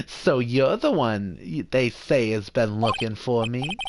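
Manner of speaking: lightly voiced Jewish mother as lawyer; a hint of Jewish mother, self-important. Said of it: "I'll definitely do that voice a little bit".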